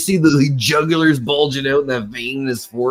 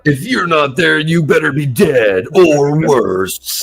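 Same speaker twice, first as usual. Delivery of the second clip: slow, dramatic ad announcer; monster truck ad; 3 dB louder, slower than usual. Retold or imitated. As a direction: drag it out like a rally promo. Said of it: "That's what the old monster truck ads".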